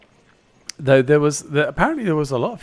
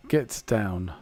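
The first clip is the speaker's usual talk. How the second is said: slow, low, limp "Get down"; flat Arnie reading; 3 semitones lower than usual. Retold or imitated. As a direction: read "Get down" flat and lifeless. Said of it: "Arnie will come up to you and go".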